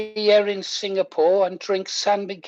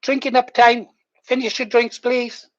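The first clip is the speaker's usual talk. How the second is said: raised publican calling last drinks; landlord calling time; 5 semitones higher than usual. Pretend. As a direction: call time like a pub landlord. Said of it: "It's like down the pub".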